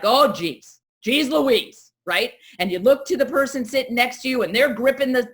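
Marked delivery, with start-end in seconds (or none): 0.0-1.9 nervous exclaim. Retold or imitated. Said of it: "And you're like".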